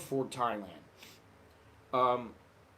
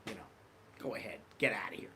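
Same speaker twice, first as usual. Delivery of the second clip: easygoing cop; 4 semitones lower, 4 dB quieter than usual. Retold or imitated. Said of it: "the guy was in a great mood and he's like".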